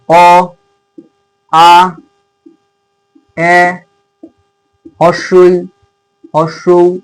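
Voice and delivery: separate, sustained vowels অ, আ, এ with long pauses; vowel sounds demonstrated. Shown as a demonstration. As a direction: say অ, আ, এ one at a time, each held level. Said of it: "উচ্চারণটা কিরকম হবে".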